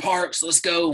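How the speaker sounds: put-on Southern accent. After a really tough wrestling practice, the coach calls Parks, in Coach Atterbury's rough Southern country voice. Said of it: "he's got this rough voice and from the South".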